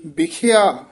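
ਬਿਖਿਆ set apart with a slight halt after it; ਬਿਖਿਆ detached from the next word; brief yamak pause. Shown as a demonstration. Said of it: "ਇੱਥੇ ਯਮਕ ਲੱਗ ਜਾਏਗੀ".

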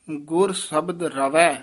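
slow phrase lifting into a brief halt on ਰਵੈ; slight halt after ਰਵੈ. Shown as a demonstration. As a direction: stretch ਰਵੈ, then hesitate briefly. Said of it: "ਇੱਥੇ ਠਮਕ ਲਾ ਦੇਣੀ ਹੈ".

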